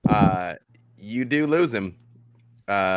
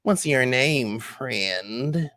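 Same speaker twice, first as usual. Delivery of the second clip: drawn-out goblin voice; little goblin; 4 semitones higher, much slower than usual. Acted. Goblin sizes up Xander, drawn-out questioning. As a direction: stretch the last word into a rising question. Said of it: "this little goblin walks right up to you".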